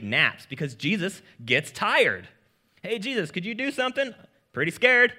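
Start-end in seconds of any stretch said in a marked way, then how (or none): 2.8-5.1 high, hurried mock panic; higher, fast pleading with a loud scared end; mock scared disciples. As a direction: play the frightened disciples, a bit hammed-up. Disciples waking Jesus in storm.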